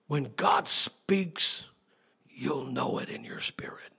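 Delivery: slow start, then a whispered secret; preacher's hush. Acted. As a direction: drop to a whisper to draw them in. Preacher drops to intimate hush.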